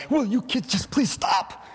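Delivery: slow, pleading parent at the end of their rope; exasperated parent. Retold or imitated. Pastor imitating a parent pleading with noisy kids. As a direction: beg the kids in the back to stop.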